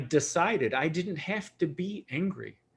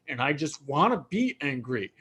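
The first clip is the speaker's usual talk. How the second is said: stubborn defiance. Retold or imitated. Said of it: "I do realize I'm angry and go".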